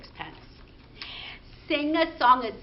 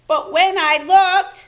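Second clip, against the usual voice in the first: much higher and louder, startled; surprised reading; 6 semitones higher, 10 dB louder than usual. Pretend. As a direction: gasp in storybook surprise. Reading surprise in picture book.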